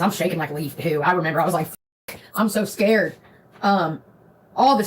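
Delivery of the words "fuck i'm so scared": scared whisper. Retold or imitated. Terrified while driving drunk.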